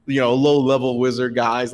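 usual speaking voice

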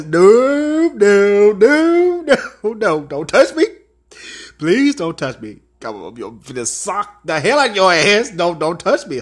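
loud, frantic no no no; panicked pleading. Retold or imitated. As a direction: back away begging loudly. Recoiling from drag queen's touch.

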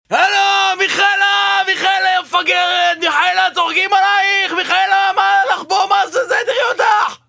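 high shouted taunts; screaming insults. Acted. Boyfriend mocking his blind girlfriend with high shouts. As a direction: yell mockery at her, voice up high. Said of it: "אני צורח ממש חזק".

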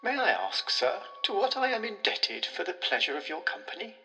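polite, easy host's voice; calm, airy tones. Acted. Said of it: "in the calm, airy tones in which he might have addressed an acquaintance".

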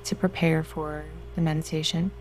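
guided meditation. Acted. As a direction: soothe them into relaxation.

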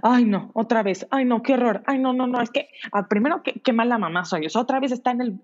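mock an embarrassed mom's racing inner voice; flustered inner panic. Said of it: "¿y qué es lo que estamos pensando?".

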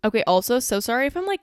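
a little out of breath after the gym. Real, not acted. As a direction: talk while still out of breath. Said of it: "kind of out of breath".

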